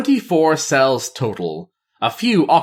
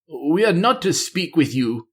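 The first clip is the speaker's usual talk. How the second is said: stammering; 6 semitones higher than usual. Acted. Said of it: "he stammered".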